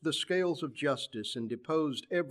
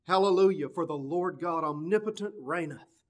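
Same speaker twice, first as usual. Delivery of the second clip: proclaimed hallelujah. Retold or imitated. Preacher voicing the cry shouted from heaven's portals, proclaimed. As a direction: ring out the Hallelujah as from heaven's gates. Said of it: "shouted from the portals of heaven".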